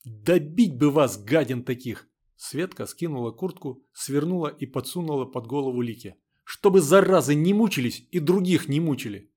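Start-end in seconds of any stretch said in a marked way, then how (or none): 0.0-2.1 loud, slow angry outburst; angry scolding. A narrator's reading. Светка scolds the reckless girls, angrily. 6.4-9.3 angry scolding. A narrator's reading. Светка scolds the reckless girls, angrily.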